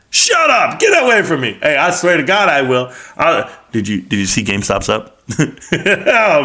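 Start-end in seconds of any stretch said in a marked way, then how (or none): 0.1-1.6 mock retort. Wife's retort in the story.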